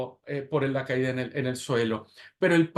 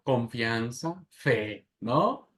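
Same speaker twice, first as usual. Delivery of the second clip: normal talking voice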